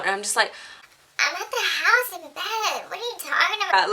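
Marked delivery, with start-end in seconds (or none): 1.2-3.9 feigned innocence. Retold or imitated. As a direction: play dumb to fool mom. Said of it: "really trying to, like, lie my way through this".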